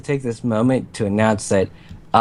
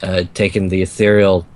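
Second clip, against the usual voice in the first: succubus voice; 3 semitones lower than usual. Acted. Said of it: "succubus voice".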